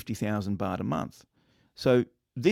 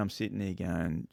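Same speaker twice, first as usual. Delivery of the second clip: usual speaking voice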